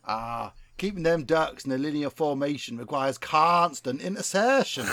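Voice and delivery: put-on West Country accent. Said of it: "best West Country accent".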